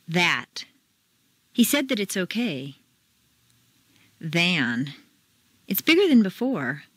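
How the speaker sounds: each word then its sentence with reduced vowels; word and sentence drill. Shown as a demonstration. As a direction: model words then reduce them in sentences. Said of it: "word by word and in a sentence".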